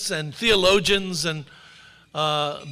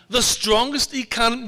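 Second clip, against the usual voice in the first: sarcastic echo of the boast, slightly higher; mocking echo; 3 semitones higher than usual. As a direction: repeat it in a lightly put-on mocking voice. Mocking repeat of the president.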